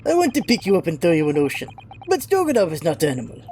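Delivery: put-on lightly done Russian accent, gruff sailor; a proud, touchy Russian seaman. Sailor Stroganoff scolding the visitors, light Russian accent. Stroganoff boasts about cabins.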